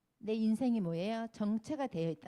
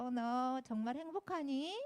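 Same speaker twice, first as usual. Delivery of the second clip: drawn-out, higher mock fussing; fussing, gushing; 4 semitones higher, slower than usual. Friend fussing over someone seemingly happy, mock gushing. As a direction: make a slow, exaggerated fuss over a friend. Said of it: "호들갑을 떨어요".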